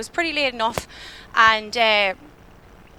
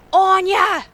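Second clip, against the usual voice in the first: calling out a name; 7 semitones higher, 6 dB louder than usual. Retold or imitated. Voice calls her name ahead.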